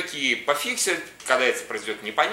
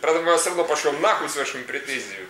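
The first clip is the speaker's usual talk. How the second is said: high, chirpy hotline operator; recorded call-center greeting, mocking; customer service voice; 6 semitones higher, 4 dB louder than usual. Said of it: "звонишь, типа".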